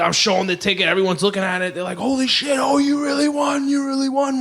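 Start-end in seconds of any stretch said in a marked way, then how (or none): 2.0-4.4 much higher, shouted disbelief; amazed shouting. Retold or imitated. Friends seeing the winning ticket, shouting in amazement.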